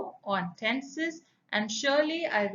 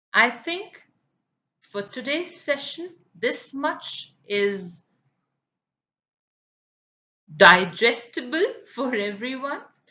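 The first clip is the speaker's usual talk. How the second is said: slow, deliberate, unhurried speech in a raised voice; 6 dB louder than usual. Teacher wrapping up an English grammar session, speaking slowly. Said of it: "Why I'm speaking slow?".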